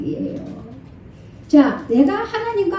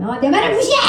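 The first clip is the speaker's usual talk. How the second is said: mock yell; 6 semitones higher, faster than usual. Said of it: "소리 왜 지르면서 말이야".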